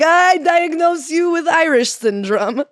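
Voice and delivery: slow, high, loud fake-doctor pronouncement; mock diagnosis shout. Host parodying old doctors, slow mock shout. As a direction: bellow the verdict like a pompous doctor. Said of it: "They'd be like".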